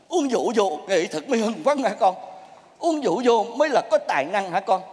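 low, mock-admiring questions; dry disbelief at a pupil's excuse; sarcastic echo. Sarcastically echoes the drinker's excuse.

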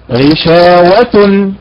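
غشاوة slow, stress on the شين; teacher's slow correct غشاوة. Shown as a demonstration. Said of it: "الأداء المستقيم بالنبر على حركة الشين".

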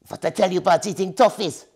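lightly scolding squeak; mild scolding hamster. A narrator's reading. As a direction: tell her off gently. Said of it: "scolded Hugo".

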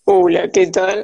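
low, tough woman's greeting; deep voice. Shown as a demonstration. Showing how she did deep voices, low and tough. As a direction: drop the voice low and hard. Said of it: "para mí hacer los graves era así de".

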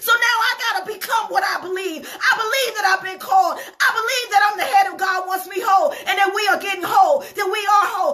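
rising, fervent preaching; impassioned preaching. Acted. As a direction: build the congregation up with conviction. Preaching at full force.

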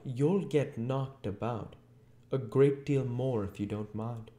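menacing threat. A narrator's reading. Invisible Voice threatens Marvel.

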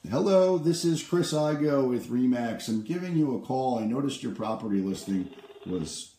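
bright, friendly salesman on the phone; upbeat cold-call pitch. Acted. Realtor cold-calling an expired-listing owner, upbeat sales pitch.

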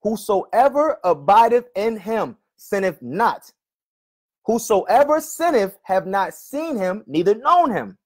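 slow, deliberate reading of the verse, word by word. Shown as a demonstration. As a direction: spell it out slowly so he finally hears it. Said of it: "I'll read it slower".

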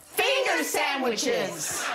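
delighted and laughing; excited. Acted. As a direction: savour the words like a treat. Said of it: "can everybody say".

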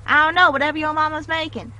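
put-on country twang; country accent. Friend answers a dinner question in a pretend country accent. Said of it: "how to do my country accent".

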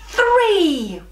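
laughing. Real, not acted. Kids shout names on three.

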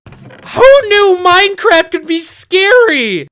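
high, loud and drawn out; rattled outcry. Real, not acted. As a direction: cry out slowly after a scare. Jolted by horror game.

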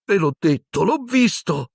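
high, urgent frightened voice; frightened boy. Acted. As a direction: insist in panic. Ron insists.

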